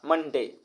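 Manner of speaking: "मंडे" in two beats, मन-डे; two-beat demonstration. Shown as a demonstration. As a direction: separate "मंडे" into मन and डे. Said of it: "इसमें दो बार में बोलना पड़ा".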